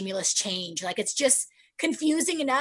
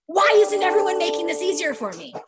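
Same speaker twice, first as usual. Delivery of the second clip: irritated complaint; 6 semitones higher, 3 dB louder than usual. Retold or imitated. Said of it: "I start going".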